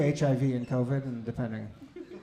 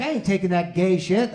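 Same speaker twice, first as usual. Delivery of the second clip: Florida guy's answer; 4 semitones higher, 6 dB louder than usual. Retold or imitated. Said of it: "That was his actual answer".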